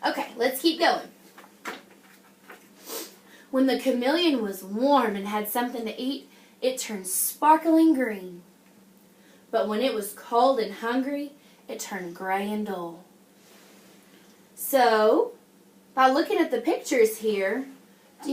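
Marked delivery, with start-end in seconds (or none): 3.5-13.0 put-on reading a picture book to children; story reading.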